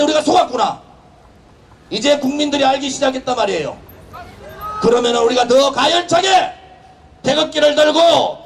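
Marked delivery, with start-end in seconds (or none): 4.8-8.4 roaring rallying speech. Real, not acted.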